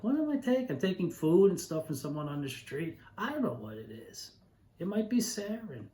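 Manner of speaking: high, mildly anxious inner voice; a touch of nervous suspicion; lightly voiced past self fretting over free food; mock worry. Retold fearful inner thought.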